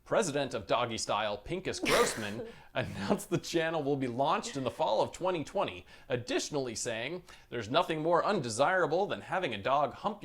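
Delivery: crisp broadcast news read; news anchor voice. Acted. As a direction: deliver it like an evening anchor. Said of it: "This is my best anchor".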